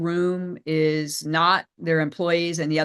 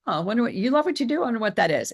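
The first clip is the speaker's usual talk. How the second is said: quick, higher intrigued "oh, I wonder"; curious listener; 5 semitones higher, much faster than usual. Retold or imitated. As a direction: act the listener suddenly curious. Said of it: "it causes them to go".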